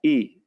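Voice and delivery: ई said as the short vowel of pin; ई voiced as a short i, like in pin; teacher sounding ई. Shown as a demonstration. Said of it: "इसका उच्चारण कैसे होता है?".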